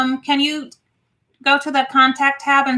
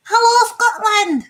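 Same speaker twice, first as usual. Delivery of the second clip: high, drawn-out sing-song hello; excited greeting; 10 semitones higher, 4 dB louder, slower than usual. Real, not acted. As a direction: call it out like a game show host. Livestream shoutout, sing-song greeting.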